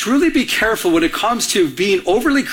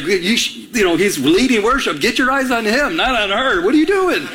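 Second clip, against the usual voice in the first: indignant mock scolding, rising much higher by the end; upset; 4 semitones higher than usual. Fiancé silently scolding the worship leader, upset and indignant. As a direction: act out a jealous telling-off. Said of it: "And I was just so upset".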